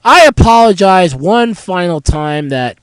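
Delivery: stuffy nose from a cold; blocked-nose nasal voice. Real, not acted. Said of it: "listening to my nasal voice right now".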